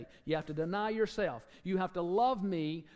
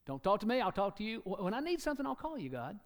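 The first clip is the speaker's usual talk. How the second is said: mock arrogant believer; 5 semitones higher than usual. Proud believer tells God off, cocky mock voice. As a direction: ham up a smug believer dismissing God.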